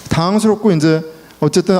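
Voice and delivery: usual speaking voice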